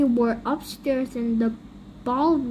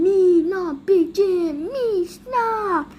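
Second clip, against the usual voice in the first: panicked begging; 3 semitones higher, 4 dB louder, slower than usual. Acted. Character begs Big Jim to stop.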